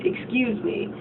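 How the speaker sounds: sad. Retold or imitated. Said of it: "how sad he is just from him saying those two words".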